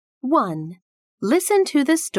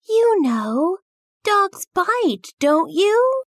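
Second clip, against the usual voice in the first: put-on scared child; 10 semitones higher, slower than usual. Same child warns about dogs.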